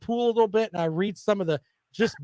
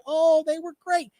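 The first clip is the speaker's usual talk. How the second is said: slow, high sarcastic "oh"; mocking the co-host's praise, sarcastic; sarcastic gush; 9 semitones higher, 4 dB louder than usual. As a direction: drip with fake praise. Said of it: "sit here and say".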